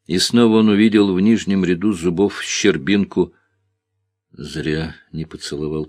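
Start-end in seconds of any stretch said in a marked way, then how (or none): 4.3-5.9 soft, inward regret; inner thought. Acted. Young man regretting to himself, soft and inward. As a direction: think it to yourself softly. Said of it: "подумал он".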